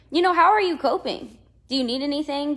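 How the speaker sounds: caring. Retold or imitated. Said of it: "I was like".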